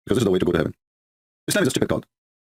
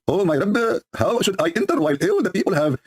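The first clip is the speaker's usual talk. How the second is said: worried plea; 5 semitones higher than usual. Acted. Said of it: "The guy is worried".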